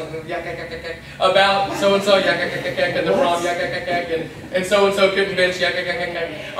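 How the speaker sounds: lightly mocking yak yak chatter; mock gossip chatter. Preacher mocking students gossiping on way to lunch, mild mock chatter. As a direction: rattle off yak yak like idle gossipers. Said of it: "that's how they sound".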